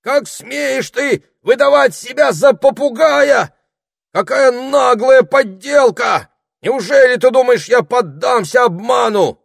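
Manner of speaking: high, slow, loud indignant shouting; furious wizard. A narrator's reading. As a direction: scold the impostor with full outrage.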